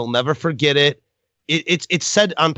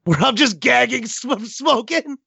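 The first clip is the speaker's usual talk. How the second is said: high strained gagging sounds; mock gagging; 10 semitones higher, slower than usual. Shown as a demonstration. Podcaster mocks his own coughing reel, mock gagging. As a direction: fake a cough mid-word. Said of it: "releasing a coughing reel".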